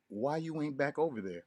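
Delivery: ordinary talk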